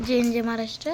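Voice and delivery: slogan called out loud and proud. Real, not acted. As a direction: belt out the patriotic slogan. Child shouts the slogan.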